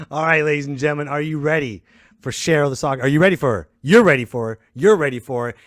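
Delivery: hyped host intro, words punched out to the crowd; rally the audience like an emcee; show announcer. Acted. Host warming up the audience for Cheryl, hyped announcer.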